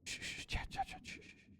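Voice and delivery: urgent hushed shushing; whispering. Real, not acted. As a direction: keep it dead quiet. Hushing chat near the fish.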